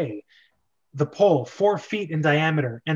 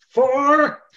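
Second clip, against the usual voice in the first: higher, louder count; countdown call; 10 semitones higher, 7 dB louder than usual. Acted. Captain counting down the execution. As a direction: call the number.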